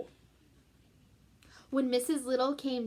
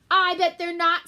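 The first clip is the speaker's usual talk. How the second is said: cat insisting; 6 semitones higher, 9 dB louder than usual. Acted. Cat argues, loud.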